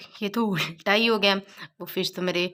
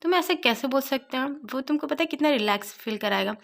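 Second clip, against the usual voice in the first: angry; 6 semitones higher than usual. Retold or imitated. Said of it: "बहुत गुस्से में बोलता है".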